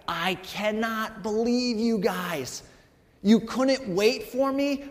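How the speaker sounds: a touch of exasperated anger, slightly slow; mock furious Moses. Moses scolding the people for the golden calf, mildly angry. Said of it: "and he is furious".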